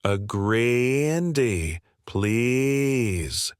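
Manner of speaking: very slow, drawn-out mock Canadian accent; mock the customer's Canadian accent; sneering parody of a Canadian accent, stretched out; mocking Canadian imitation. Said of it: "Alex's voice shifted to a mocking tone".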